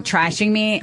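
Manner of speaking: normal talking voice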